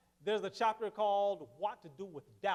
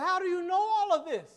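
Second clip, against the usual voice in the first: amazed; 9 semitones higher, 6 dB louder than usual. Retold or imitated. Amazed question to the man.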